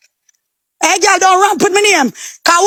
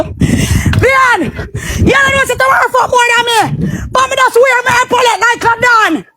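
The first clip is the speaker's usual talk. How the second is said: higher, fierce shouted taunt; heated boast; 5 semitones higher than usual. Real, not acted. Taunting the rival girl, shouting and boasting. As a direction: rise up and throw it at her.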